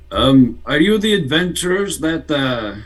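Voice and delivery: put-on a poor Russian accent, half-hearted. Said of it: "It's a very poor Russian accent".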